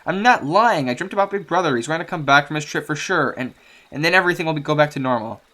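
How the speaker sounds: put-on high, hurt girl insisting; a hurt daughter pushing back; frustrated and hurt. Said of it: "She looks frustrated and hurt".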